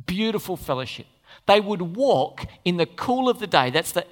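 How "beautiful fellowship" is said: softer, savoring "Beautiful fellowship"; tender echo. Shown as a demonstration. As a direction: linger on it tenderly.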